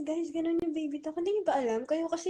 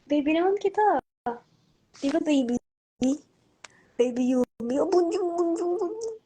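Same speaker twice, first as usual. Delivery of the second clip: put-on sing-song cooing baby talk, higher and louder; 3 semitones higher, 5 dB louder than usual. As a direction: coo at the baby doll. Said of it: "ganun pala yung baby talk". (nagbe-baby talk, pakanta-kanta)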